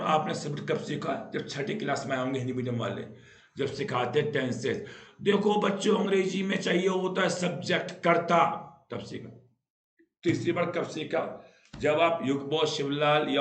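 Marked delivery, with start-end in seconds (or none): 5.2-8.5 lightly mocked teacher addressing children; a hint of classroom singsong; imitated schoolteacher. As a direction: recite a grammar rule to the class, slightly raised voice.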